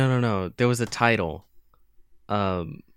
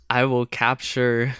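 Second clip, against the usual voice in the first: higher, goofy villain boast; sneering panto villain; 4 semitones higher than usual. Retold or imitated. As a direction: ham up a dumb villain scheme. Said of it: "I like when they're dumb".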